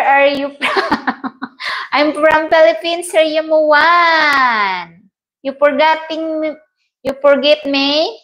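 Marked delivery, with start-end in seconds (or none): 3.1-5.1 long drawn-out call; slow playful shout; calling out a name. Real, not acted. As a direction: stretch the name out slowly like a shout across the room.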